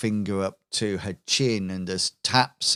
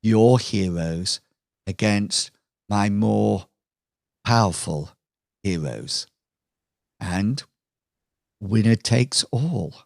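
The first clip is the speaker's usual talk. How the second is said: smug villain Lucille. Acted. Villain Lucille taunts Jack on screen, lightly voiced smug villainess. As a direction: tease the hero with mock concern. Lucille lays out her showdown terms.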